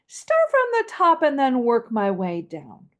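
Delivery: walk the voice down to the bottom; descending melody. Shown as a demonstration. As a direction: gradual downward glide. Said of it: "Once again".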